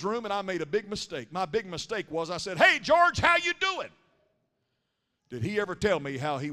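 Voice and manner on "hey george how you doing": high, raised-voice hospital hello; retold greeting, pitched way up; hearty greeting. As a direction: call out a big hello to the patient. Cheery greeting in retold hospital visit.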